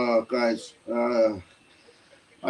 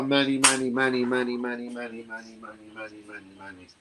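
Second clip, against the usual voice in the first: 1 calling, fading out; 4 semitones lower than usual. Real, not acted. Calls a friend's name, fading.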